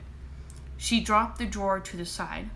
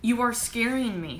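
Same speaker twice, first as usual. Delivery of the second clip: sobbing; 4 semitones higher, 4 dB louder than usual. Acted. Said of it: "her mom sobbed".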